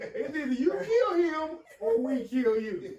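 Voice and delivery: loud, high and laughing; worked-up, laughing rant; laughing accusation. Real, not acted. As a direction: accuse a friend loudly through laughter. Laughing mock accusation among friends.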